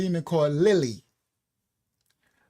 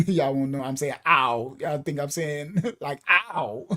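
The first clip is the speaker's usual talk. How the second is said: laughing; 4 semitones lower than usual. Real, not acted. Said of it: "my New York accent".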